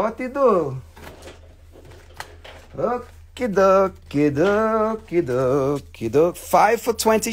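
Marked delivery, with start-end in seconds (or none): 2.8-6.4 singsong okie dokie. Pretend. Playful singsong filler.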